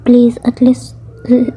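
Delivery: breathy pleading whisper. Acted. Daughter whispering a plea to her parents. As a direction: whisper it, begging them to look.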